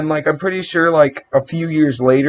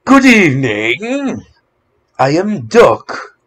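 duck voice; 4 dB louder, slower than usual. Acted. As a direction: slowly voice a cartoon duck. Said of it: "your duck voice is pretty bad".

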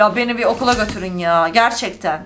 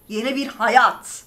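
mocking repeat; slower than usual. Shown as a demonstration. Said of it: "Yeni bir hayat mı?".

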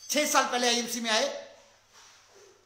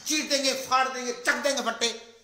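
loud, higher fired-up boast; pumped up; 3 semitones higher, 6 dB louder than usual. Retold or imitated. Motivated newcomer boasting after the meeting, loud. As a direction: pump your fist like you'll conquer all. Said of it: "बड़ा motivate हो जाता है".

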